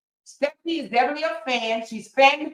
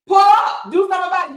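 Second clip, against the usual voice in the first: retold dare; 7 semitones higher, 7 dB louder, faster than usual. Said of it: "she said".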